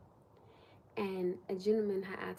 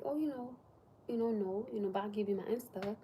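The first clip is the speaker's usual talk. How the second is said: gentle, soft-spoken imitation. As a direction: let her down gently, lightly acted. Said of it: "very soft-spoken, so gentle".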